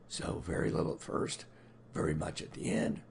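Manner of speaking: low, hoarse smoker's rasp; husky voice roughened by a cold; chain smoker rasp. Real, not acted. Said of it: "I sound like a chain smoker".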